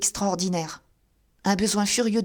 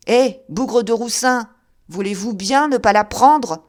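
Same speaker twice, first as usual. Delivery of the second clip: delirious ranting; 6 dB louder than usual. Acted. Delirious Coupeau ranting hallucinations.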